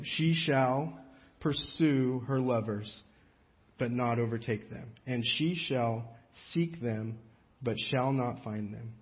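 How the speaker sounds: slow careful scripture reading, each phrase spaced; read slowly. Shown as a demonstration. Pastor slows down to read the tongue-twister verse, slowly. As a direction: take it slow so the tongue twister comes out clean. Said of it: "I'm gonna read this really slow".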